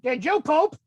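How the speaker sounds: a mild mock yell of the nurse; retold nurse scream. Hospital nurse asking the kid, mild mock yell. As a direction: call it out like the nurse did, half-hearted. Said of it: "screamed it".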